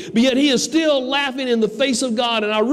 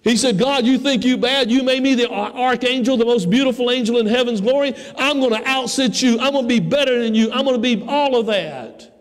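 boasting Satan; 3 semitones higher than usual. Acted. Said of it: "started laughing in the face of God and said".

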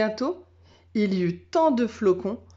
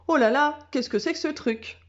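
puzzled dog; 6 semitones higher than usual. A narrator's reading. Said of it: "en langage chien".

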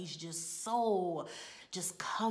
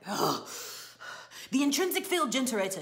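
loud, fast, higher-pitched mock outburst; groan, then fire off the correction; exasperated prompting; 4 semitones higher, 7 dB louder, faster than usual. Playwright prompting a flubbed line, loud exasperation.

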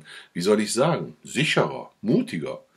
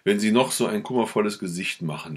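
ordinary delivery, nothing marked

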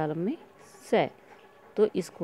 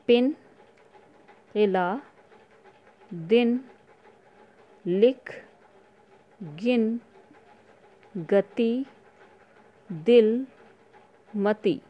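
teacher reading aloud; 3 dB louder, much slower than usual. Shown as a demonstration. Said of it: "तो आप इसे पढ़ेंगे।".

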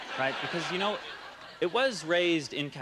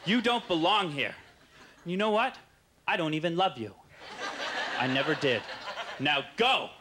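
shouting; 5 semitones higher than usual. Retold or imitated. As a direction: yell it to drive the joke away. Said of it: "So I shout".

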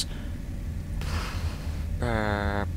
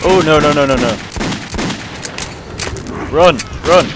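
panicked no no then run; being chased; 2 semitones higher than usual. Real, not acted. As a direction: flee in a rush of panic. Fleeing monsters in game.

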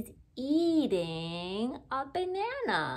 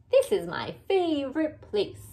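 hippo voice; 5 semitones higher, 5 dB louder, faster than usual. Acted. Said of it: "says Mister Hippopotamus".

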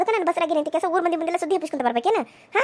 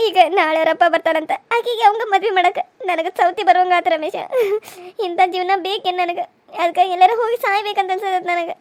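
tearful complaint. Acted. Wife cries to Ramesh.

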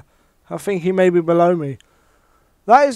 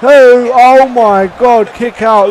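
excited shout; 2 semitones higher, 6 dB louder, slower than usual. Real, not acted. Counting the pin in the game.

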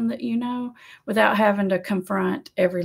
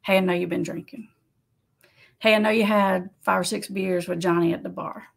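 casual statement; 2 semitones lower than usual. Shown as a demonstration. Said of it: "Just make the statement".

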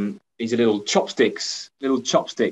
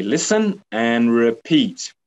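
instruction. Shown as a demonstration.

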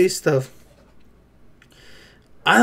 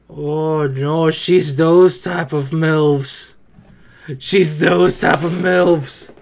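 slow punchline; 5 semitones lower, much slower than usual. Real, not acted.

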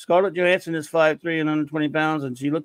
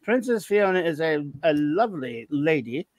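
put-on fast, higher posh English butler accent; Jeeves accent; 4 semitones higher than usual. Host teases listener Max in a posh Jeeves accent. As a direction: answer like a haughty English butler. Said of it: "my annoyingly Jeeves accent".

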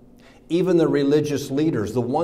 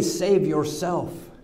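mocking; 5 semitones higher, much slower than usual. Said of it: "the irony of it is, they say".

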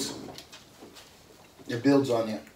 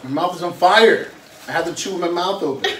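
laughing; 6 semitones higher, 5 dB louder than usual. Real, not acted. Mouth burning, laughing.

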